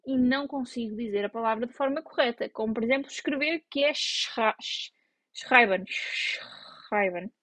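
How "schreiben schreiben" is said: ordinary talk, nothing marked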